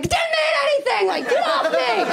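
laughing jock shrugging off the flight crew; dismissive jock. Retold or imitated. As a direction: brush them off like a sheepish jock. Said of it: "like a jock who slept with you".

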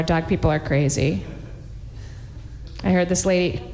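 normal talking voice

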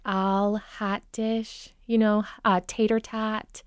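"hot dish" and "tater tot." with bright flat Minnesota vowels; Minnesota accent. Shown as a demonstration. Dialect coach giving Minnesota accent examples. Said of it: "get a little brighter and flatter".

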